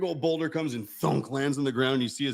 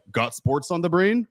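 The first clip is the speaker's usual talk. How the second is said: loud, higher ad voice; commercial announcer; 6 semitones higher, 6 dB louder than usual. Retold or imitated. Retelling a sports commercial, in a mock announcer voice. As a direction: punch it like an imitated TV tagline. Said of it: "that old Sports Center commercial".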